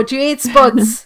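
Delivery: playful put-on Cork accent. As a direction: do your best Cork accent for a comic rhyme. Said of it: "that's my best Cork accent".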